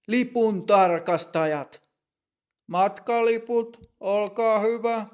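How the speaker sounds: loud announcement. A narrator's reading. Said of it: "tarkastaja sanoo kovalla äänellä".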